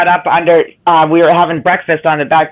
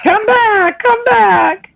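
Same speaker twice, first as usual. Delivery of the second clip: laughing call; much slower than usual. Real, not acted. Calling after Angie, laughing.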